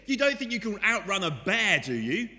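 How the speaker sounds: high, loud, incredulous cry; gasping disbelief. Acted. Friend fleeing a bear, gasping in shocked disbelief. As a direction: gasp it out in alarm at the friend. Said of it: "gasps at him and says".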